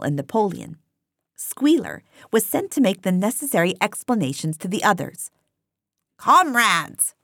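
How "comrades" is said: crying out. A narrator's reading. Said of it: "he cried".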